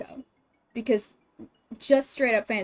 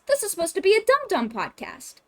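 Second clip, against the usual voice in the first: quoting the host; 9 semitones higher than usual. Retold or imitated. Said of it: "They've all said it".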